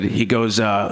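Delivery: ordinary talk, nothing marked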